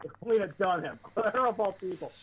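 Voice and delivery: laughing in disbelief; scoffing laugh through the words. Real, not acted. Mocking a celebrity, laughing.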